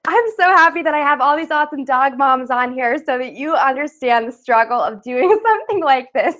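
breathless after wrangling the dog; out of breath. Real, not acted. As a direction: talk out of breath. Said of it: "I'm a little out of breath after that".

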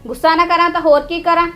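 loud, heated nagging at her son; angry complaining. Acted. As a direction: vent all your anger about the lazy sister-in-law. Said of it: "ਗੁੱਸਾ ਕਰੀ ਜਾਂਦੀ ਆ".

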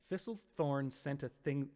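"Thistlethorn" sounded out slowly, stumbling; slow careful tongue twister. Shown as a demonstration. Streamer struggles with a viewer's tongue twister, stumbling slowly. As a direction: pick through "Thistlethorn sent a" slowly. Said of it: "Try it".

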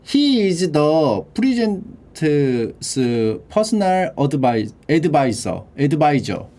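very slow, careful English; slow careful reading; slow model reading. Shown as a demonstration. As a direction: read it word by word for students. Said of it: "slow reading of example".

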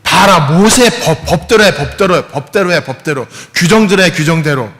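a mildly hammed-up Pharisee insisting on the rules; legalistic Pharisees. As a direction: press the rule on them like a stern accuser. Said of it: "바리사이하고 율법학자들이 예수님을 시험하려고".

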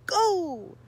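loud high shout. Acted. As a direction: leap out yelling. Pounce shout.

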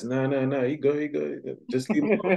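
high-pitched acted protest; urgent dissuading. Acted calming down of angry friend.

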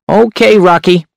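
high, sharp hunchback voice. A narrator's reading. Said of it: "The hunchback's voice was sharp and high".

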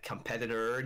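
"competitor" ending in -tor; correcting the word. Shown as a demonstration. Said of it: "you mean?".

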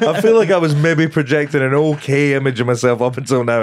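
embarrassed confession through high, loud laughter; laughing. Real, not acted. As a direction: barely get it out for laughing.

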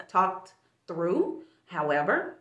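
talking around a retainer; wearing a retainer. Real, not acted. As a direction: retainer in the mouth. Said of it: "sorry, I got this retainer in my mouth".

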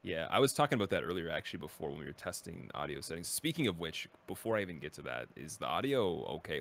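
glitchy robotic mic; robotic audio. Real, not acted. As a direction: digital warble on the voice. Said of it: "people were saying in chat that my audio is robotic".

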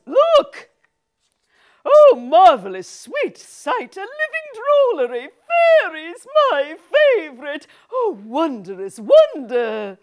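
high excited wonder; awestruck. Acted. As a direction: marvel aloud. Awed at fairies.

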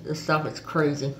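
lips stretched by fingers; talking with stretched mouth; fingers pulling mouth wide. Real, not acted. Seen 2: Fingers hooked in both mouth corners, pulling lips wide, throughout.

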